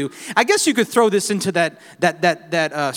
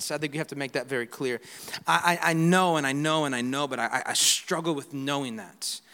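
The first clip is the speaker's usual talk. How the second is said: confessional hush; 3 semitones lower, 5 dB quieter than usual. Real, not acted. Confessional quiet aside.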